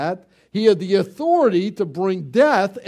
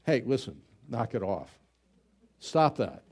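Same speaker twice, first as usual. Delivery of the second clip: softer, offhand mock brush-off; mock blunt dismissal; 7 semitones lower, 7 dB quieter than usual. Tactless visitor telling weepers to quit, mock offhand. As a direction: play a tactless mourner, lightly.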